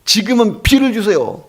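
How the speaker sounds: high-pitched, eager farmers' request; acted-out gleeful plea; excited prayer. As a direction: call up to God, thrilled to be asking. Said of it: "농부들이 신나서 이제 기도하는 거예요".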